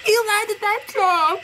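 relieved excitement. Real, not acted. Relief after jump.

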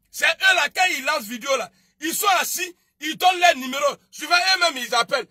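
loud, high scornful shouting; angry shout. Real, not acted. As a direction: shout your scorn at them. Mocking rival video makers. (mépris crié, fort)

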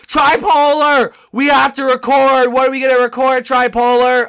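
hammed-up high scream; Jackalope. Gamer imitating his loud friend calling him to record, screaming impression. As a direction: scream every word, slow and very loud. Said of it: "screams when he talks".

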